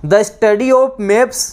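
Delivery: very slow, each English word spaced for note-taking; slow dictation. Shown as a demonstration. Teacher dictating to students, very slow and spaced. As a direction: read the definition out word by word, slowly.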